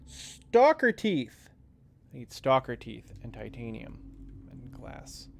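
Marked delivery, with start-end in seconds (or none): 0.0-1.5 mock dramatic. Naming item he needs.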